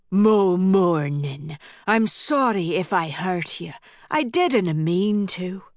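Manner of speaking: a lightly voiced man smoothing things over; Malcolm apologising.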